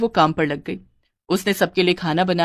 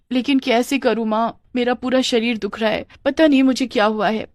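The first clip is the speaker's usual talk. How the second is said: high, plaintive excuse-making; feigned suffering; 4 semitones higher than usual. Pretend. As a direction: whine about put-on aches. Shirker feigning aches to mother-in-law. (बीमारी का बहाना, रोनी आवाज़)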